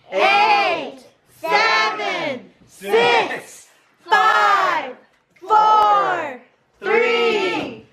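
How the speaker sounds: new year countdown crowd. Pretend.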